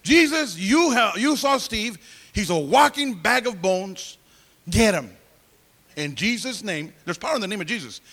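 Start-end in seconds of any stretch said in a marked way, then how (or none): 0.0-6.9 Lydia's prayer. Retold or imitated. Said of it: "Prayer is powerful".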